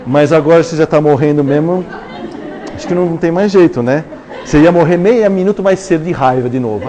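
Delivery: conta a piada entre risos; falando rindo. Real, not acted. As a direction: rindo enquanto fala. (rindo, um pouco mais alto)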